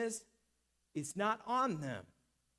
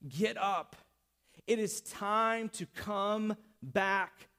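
measured, emphatic command, building; restrained preacher's call; acted yell; slower than usual. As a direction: deliver it as a slow, firm summons. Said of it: "Jesus wants to yell at you this morning".

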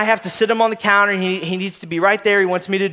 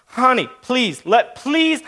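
drawn-out, rising plea; imitating a begging dad; mock pleading; 3 semitones higher, much slower than usual. Dad begging daughter to let him fix seatbelt, mock pleading.

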